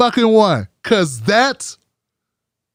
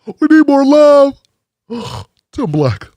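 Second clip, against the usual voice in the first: Cory Booker impression. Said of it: "that's how you sounded".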